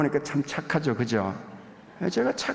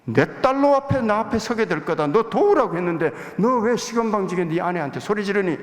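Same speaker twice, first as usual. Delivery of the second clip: God's reproach rising higher and louder to a stern peak; God's rebuke, building; 5 semitones higher, 3 dB louder than usual. Retold or imitated. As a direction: scold like God calling him out, building force. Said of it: "돌아서는데 그래요".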